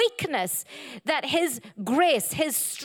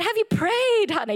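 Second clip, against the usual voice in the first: godly wife; 6 semitones higher than usual. Retold or imitated. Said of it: "like a good godly wife".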